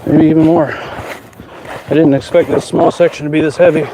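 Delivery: breathing hard after lifting; out of breath, straining. Real, not acted. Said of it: "Sorry, I'm breathing so hard".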